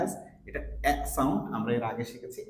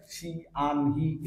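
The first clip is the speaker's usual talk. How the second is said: wrong slow take; much slower than usual. Shown as a demonstration. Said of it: "এরকম করে slow উচ্চারণ করা যাবে না".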